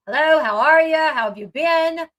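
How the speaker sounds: imitating an easy, casual hello; casual greeting. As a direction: act out a no-big-deal greeting. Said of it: "it wasn't really a big deal".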